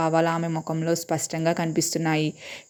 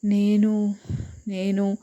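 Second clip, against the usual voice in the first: stammering; 4 semitones higher, much slower than usual. A narrator's reading. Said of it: "ఆమె తడబడుతూ".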